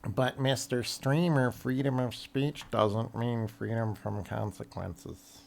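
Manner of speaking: slow, sly weaselly sneer; smug weasel drawl, taking it slow. Pretend. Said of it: "That's my best weasel voice".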